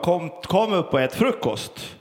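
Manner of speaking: a calm first call up the stairs; mild call. Retold or imitated. Mother calling son to breakfast, mild everyday call. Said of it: "Kerstin ropade".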